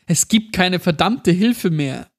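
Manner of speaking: put-on high, slow, furious child outburst; angry roar. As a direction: spit out every word in rage. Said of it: "ein wütendes Brüllen". (wütendes Brüllen)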